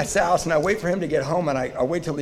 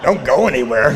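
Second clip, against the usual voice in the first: louder, laughing through the words; laughing repeat; 7 dB louder than usual. Retold or imitated. Repeating the brother's line to the crowd, laughing. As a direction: savor the punchline with a laugh.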